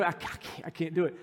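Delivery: soft, halting near-whisper; retold confiding aside. Husband confessing to his wife mid-ceremony, hushed retelling. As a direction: imitate leaning over to admit it quietly. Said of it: "So I leaned over to Joy".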